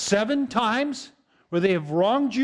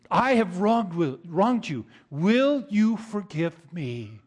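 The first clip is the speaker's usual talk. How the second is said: slow humble plea for forgiveness; sincere apology; slower than usual. Shown as a demonstration. Pastor modelling a real apology, slow and earnest. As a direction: ask it simply, meaning every word. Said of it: "another statement instead".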